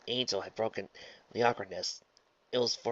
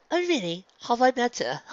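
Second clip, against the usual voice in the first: high, lively amused question; 14 semitones higher, 7 dB louder than usual. A narrator's reading. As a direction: ask it loudly, tickled, ending in a laugh. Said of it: "Rarity asked with a laugh".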